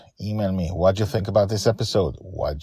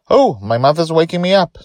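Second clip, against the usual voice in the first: put-on higher, louder young boy's voice; child Charlie; 10 semitones higher, 9 dB louder than usual. A narrator's reading. Charlie telling his friends he's waking up, in a high child's voice. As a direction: lift into a child's voice. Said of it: "Charlie says".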